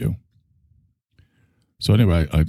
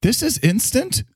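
savoring. Real, not acted. Tasting coffee, savoring it.

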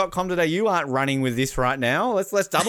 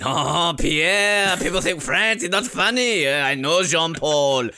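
put-on French accent; 2 semitones lower than usual. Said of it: "the French comedian".

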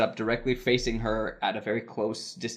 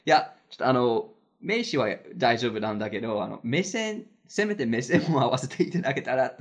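retold joking request, lightly amused; said laughing; 2 semitones higher than usual. Ignored guest asks director to include her, said laughingly. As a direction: make the awkward request sound like a joke. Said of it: "I said it all laughing".

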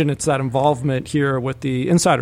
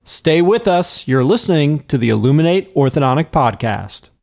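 upbeat broadcast announcer read; podcast host tease; 2 semitones higher, slower than usual. Acted. Host teasing listeners before the break in an upbeat announcer read. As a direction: tease the next segment like radio.

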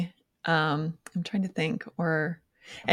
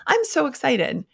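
mock excited; 5 semitones higher than usual. Shown as a demonstration. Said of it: "Just telling yourself".

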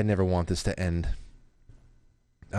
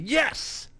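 excited yes. Retold or imitated. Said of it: "I said".

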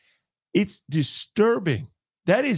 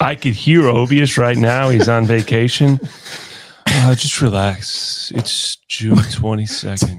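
lazy mock voice; 9 semitones lower, 8 dB louder than usual. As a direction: lay it on thick, mocking him. Mocking a laid-back colleague.

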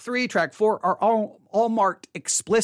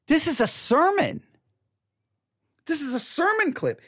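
higher-pitched, incredulous realization; retold amazement; 6 semitones higher than usual. Telling viewers of finding a sermon, amazed. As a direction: replay the moment it dawned on you.

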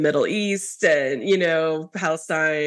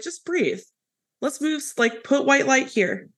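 soothing guide; 6 semitones higher than usual. Retold or imitated. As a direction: talk a panicking man gently into calm. Guiding father-in-law through Reiki calm.

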